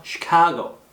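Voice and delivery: "시카고" opened with a hushing sh; sh in Chicago. Shown as a demonstration. Teacher models the city name, clear sh onset. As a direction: say "시카고" starting with sh, not s. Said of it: "한 번 더".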